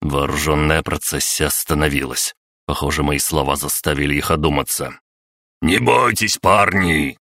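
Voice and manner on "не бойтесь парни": выше, громко подбадривает; заори, ободряя парней; крик. Acted. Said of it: "заорала кукла телепата". (кукла телепата кричит воинам)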